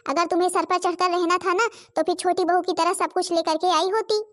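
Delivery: loud, harsh scolding; angry threat. Acted. Mother-in-law threatening daughter-in-law, loud angry scolding. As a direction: order her out of the house.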